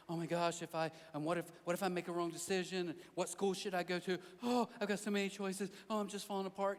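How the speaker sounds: acted-out worrier, rising in pitch; lightly hammed-up anxious rambling; mock panicky fretting. Voices someone fretting over decisions.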